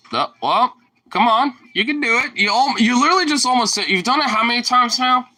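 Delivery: high encouraging doggy voice; coaxing pet talk. Real, not acted. Coaxing the dog to lie down.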